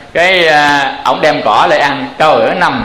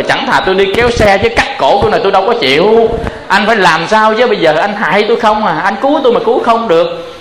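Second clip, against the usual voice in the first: panicked pleading; 5 semitones higher than usual. Acted. Horse begging, about to be slaughtered.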